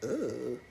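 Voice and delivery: low, soft groan of disgust; hushed reenacted disgust; disgusted ugh. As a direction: let out a quiet, revolted ugh. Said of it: "I was just like".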